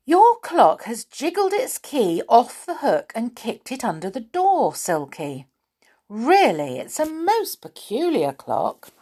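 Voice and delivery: high-pitched, amazed exclaiming; astonished. A narrator's reading. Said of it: "said Moonface in astonishment".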